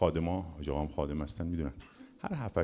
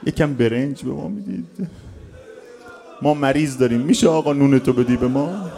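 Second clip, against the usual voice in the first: lightly voiced begging, pitch lifted; pleading pilgrims; 7 semitones higher, 8 dB louder than usual. Pilgrims begging servants for bread at the door, lightly pleading. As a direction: imitate pilgrims meekly asking for food. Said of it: "زائرایی که دم در مهمانسرا دیدید".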